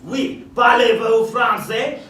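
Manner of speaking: slow hammed-up French accent. Mock Frenchman questioning the servant, in a slow French accent. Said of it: "I believe he's a French intellectual".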